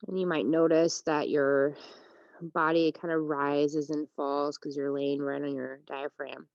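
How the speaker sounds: unhurried yoga teacher with long pauses; calm, spacious meditation delivery; guided relaxation. Real, not acted. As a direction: guide them into rest, phrase by phrase. Leads a breathing meditation.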